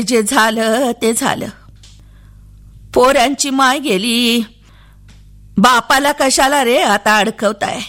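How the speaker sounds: put-on weary old man urging a lie; lightly voiced elderly host; old villager. Old villager advises Appa at night.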